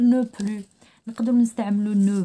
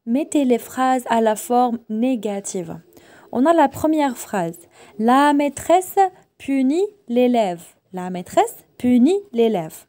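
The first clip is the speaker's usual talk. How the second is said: loud slow reading; 3 semitones higher, 7 dB louder, much slower than usual. Shown as a demonstration. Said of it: "teacher reading exercise aloud".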